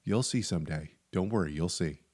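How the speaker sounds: hint at a dark secret quietly; low, soft mock-ominous warning; ominous you'll see. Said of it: "he just said".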